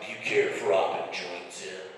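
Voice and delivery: low superhero impression; Batman. Husband asks wife about a third, mock superhero voice. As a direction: drop into a mock vigilante voice. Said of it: "was Batman".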